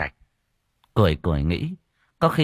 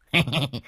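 sly leer laugh; 3 semitones higher than usual. A narrator's reading. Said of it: "nụ cười mất nết".

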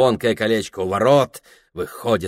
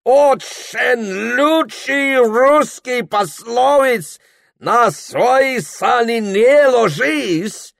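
put-on English accent; 13 semitones higher, 5 dB louder, much slower than usual. Mister Cook speaking broken Russian.

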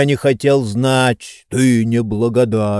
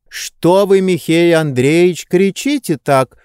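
alarmed women; 6 semitones higher than usual. A narrator's reading. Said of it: "сказали хозяйка и Анисья".

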